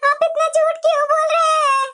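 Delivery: wounded protest. Acted. Sister-in-law protests an accusation.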